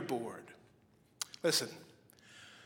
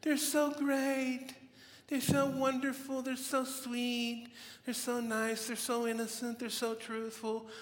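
mock gushing listener; 7 semitones higher than usual. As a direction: play the starry-eyed listener cooing over babies, way up high. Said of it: "And you say".

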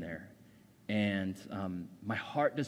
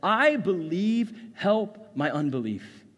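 a much higher, louder, slow desperate cry; 8 semitones higher, 7 dB louder, much slower than usual. A narrator's reading. Desperate father crying out to Jesus for help. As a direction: plead it out loud, stretched and raw. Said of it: "the father of the child cried out".

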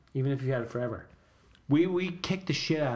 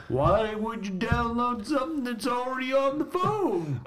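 laughing; 10 semitones higher, slower than usual. Real, not acted. Teasing laughter about old episode.

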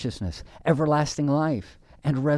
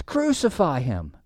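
restrained cry, slightly raised and falling; 3 semitones higher than usual. Acted. Preacher quoting the Father from his throne, crying out. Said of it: "cried the Father from his sapphire throne".

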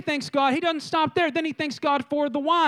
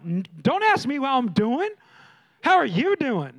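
mock anger. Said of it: "Now you're in the anger zone".

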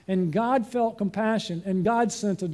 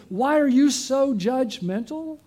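accusing; 6 semitones higher, 3 dB louder, slower than usual. Retold or imitated. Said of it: "attack you and say".

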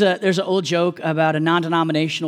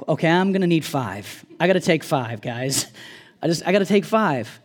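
weary Jesus; 4 semitones lower than usual. Retold or imitated. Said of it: "Jesus just go like".

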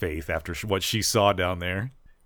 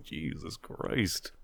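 muttered Jesus Christ; 4 semitones lower, 10 dB quieter, much slower than usual. Retold or imitated. Reaction to harsh smoking.

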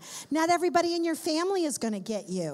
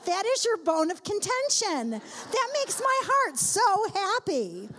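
higher, bright exaggerated glee over the bad review; mock delighted thought; 6 semitones higher, slower than usual. Preacher mocks a bad review with slow sarcastic delight. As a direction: play the sarcastic delight, stretching the last line out slow. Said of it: "And I thought".

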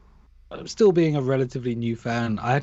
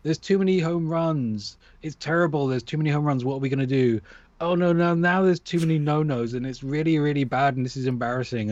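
put-on stroppy emo teenager; 2 semitones higher than usual. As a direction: imitate a stroppy teen fretting, only lightly. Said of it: "like a stroppy emo teenager".

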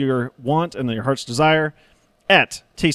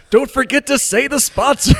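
mock nagging reminder; 11 semitones higher than usual. Mimicking a colleague's reminder.

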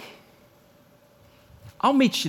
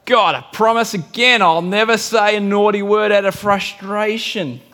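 insistent vow; 3 semitones higher, 4 dB louder than usual. Retold or imitated. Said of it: "Five weeks into covid".

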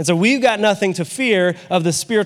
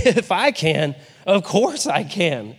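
chuckling through a confident reply; with laughter; slower than usual. Shown as a demonstration. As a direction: laugh off the doubt, stretching the last words. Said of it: "kind of like with laughter".

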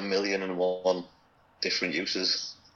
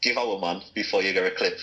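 Geordie accent. Shown as a demonstration. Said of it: "can you say it one more time".

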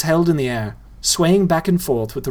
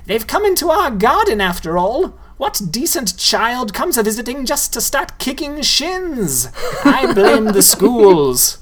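much higher, fussy ghoul voice, ending slow and loud; huffy old ghoul; 10 semitones higher, 3 dB louder than usual. A narrator's reading. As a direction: huff like an outraged old lady ghoul. Ghoul Roebuck complains.

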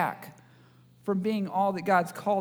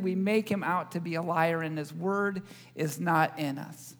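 scripture reading; 2 semitones lower, 3 dB quieter than usual. Acted. Opening scripture reading over music.

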